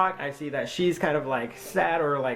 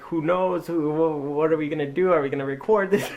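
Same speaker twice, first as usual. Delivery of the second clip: higher, eager run of questions; all excited; 4 semitones higher, 4 dB louder than usual. Retold or imitated. Vlogger asking his sister about recording the news, excited. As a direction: ask eagerly, pitch lifted. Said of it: "I was all excited".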